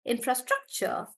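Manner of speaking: infrastructure with STRUC stressed. Shown as a demonstration. Teacher modelling infrastructure, stress on struc. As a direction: put the weight on "struc" in infrastructure. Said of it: "on struck".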